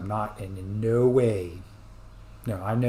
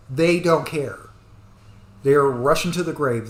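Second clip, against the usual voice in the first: louder, forceful, the anger spilling over; heated outburst; 3 semitones higher, 6 dB louder than usual. Real, not acted. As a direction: push it out hard, fed up. Angry rant about older generation.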